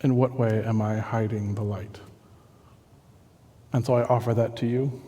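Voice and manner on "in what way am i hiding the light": contrite. Retold or imitated. Humbled apology to Jesus after outburst.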